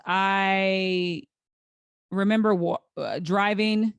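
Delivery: fighting back tears as she remembers; real choked-up voice; near tears. Real, not acted. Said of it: "I'm starting to get emotional".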